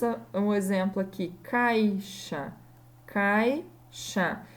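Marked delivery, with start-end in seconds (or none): 1.4-2.5 "caixa" with "cai" as one syllable; joined diphthong. Shown as a demonstration. Teacher giving caixa as example, vowels together. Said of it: "vogais que ficam juntas". 3.1-4.4 "caixa" split as cai, pause, xa; two syllables. Shown as a demonstration. Teacher dividing caixa, syllable by syllable. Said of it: "vogais que ficam juntas".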